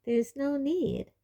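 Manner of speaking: high, slow, airy reassurance; smiling. A narrator's reading. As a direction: reassure with a smile in the voice.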